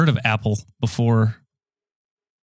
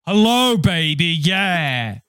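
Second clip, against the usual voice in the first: badly faked impression with drawn-out endings; high, swaggering hello, stretched out; Sean Connery; 6 semitones higher, much slower than usual. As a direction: do a hopelessly off celebrity voice. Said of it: "really good Sean Connery impression".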